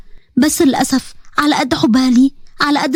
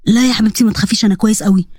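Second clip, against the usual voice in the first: a lower, gentle uncle voice; lightly voiced uncle; 5 semitones lower than usual. Uncle welcoming his niece home, lightly lowered voice. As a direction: greet her like a fond uncle.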